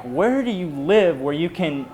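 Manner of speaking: mild retold yell, stretched words. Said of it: "I start yelling at 'em".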